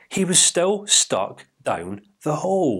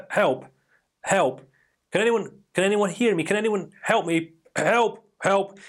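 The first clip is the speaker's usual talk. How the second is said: calls for help pitched higher, trying to sound brave; manly calling for help; 5 semitones higher than usual. Retold or imitated. Man stuck down the hole calls out for help, manly. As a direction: shout up for help while keeping some dignity. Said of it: "Trying to be as manly as what he could".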